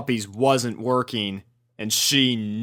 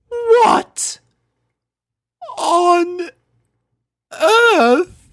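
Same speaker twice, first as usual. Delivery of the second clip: very high, loud, wailing in shock; Rarity seeing her wrecked house; stunned outcry; 7 dB louder, much slower than usual. Acted. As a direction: cry out each word, aghast. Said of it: "she remarked, too stunned".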